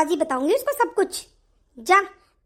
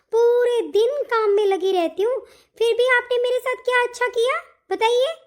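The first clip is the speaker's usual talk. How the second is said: aggrieved, higher-pitched demand; raised-voice protest; 4 semitones higher than usual. Acted. Daughter-in-law asks what good her hard work brought, aggrieved. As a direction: demand an answer, worked up. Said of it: "इतना तेज बोल रही है".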